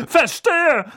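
high, loud knowing reply; knowing aunt. Acted. Aunt approving of the school. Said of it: "sagte Tante Magda".

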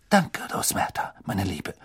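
airy, charming official; Fudge's voice. Acted. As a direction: play the smooth minister. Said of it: "sagte Fudge".

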